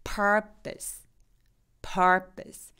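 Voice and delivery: purpose with a slack, blurred second vowel; relaxed schwa. Shown as a demonstration. Teacher modeling purpose for students, relaxed schwa. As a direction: let the pose of purpose go limp. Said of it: "두 번째 목적도 마찬가지예요".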